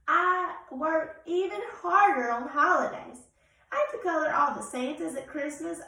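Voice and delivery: loud, weary red crayon pleading for rest; a tired crayon complaining, loud and slow at the end; overworked crayon. Acted. Reads Red Crayon's letter.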